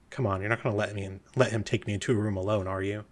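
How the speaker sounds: hurried, slightly hushed appeal; quick aside seeking an ally; urgent plea. Acted. Eckard pleads aside to Radagast.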